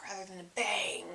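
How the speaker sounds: playful whisper on the word. Shown as a demonstration. Vlogger joking about how the video ends, whispered. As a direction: drop briefly into a whisper. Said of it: "go out with a whisper".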